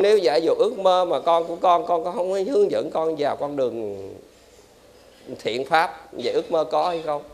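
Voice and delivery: ordinary talk, nothing marked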